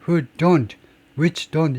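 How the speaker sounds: "Who" and "which" with full vowels before "don't"; clearly audible relative pronoun. Shown as a demonstration. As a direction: sound "Who don't, which don't" distinctly, each pronoun unreduced. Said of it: "이거는 돼요". ("Who", "which"를 또렷하게 발음)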